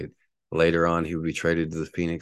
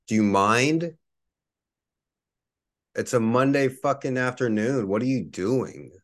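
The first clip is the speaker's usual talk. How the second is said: raised, higher voice, real irritation; angry yell out window; 5 semitones higher than usual. Real, not acted. Yelling out the window at a neighbor breaking cans, angry. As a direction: shout down at the woman outside to knock it off.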